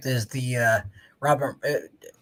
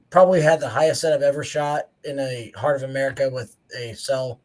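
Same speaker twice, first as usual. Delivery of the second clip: hoarse voice nearly gone; straining with almost no voice; lost voice; 4 dB quieter than usual. Real, not acted. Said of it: "I wish I had a voice".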